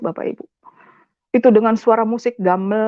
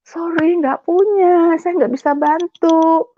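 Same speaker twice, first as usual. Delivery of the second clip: high, slow, drawn-out refusal; stretched-out mock apology, pitched up; mimicked refusal; 6 semitones higher, 3 dB louder, slower than usual. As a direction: imitate someone brushing off a beggar, higher and drawled. Imitates the woman refusing her plea.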